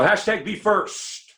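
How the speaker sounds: hashtag rising up high, slowly; high, slow hashtag be first. Shown as a demonstration. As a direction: sell hashtag be first with a lift. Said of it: "So this week".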